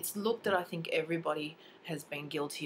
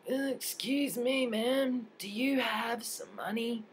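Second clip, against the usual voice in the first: tags 1; 6 semitones higher, slower than usual. Retold or imitated. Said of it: "and goes".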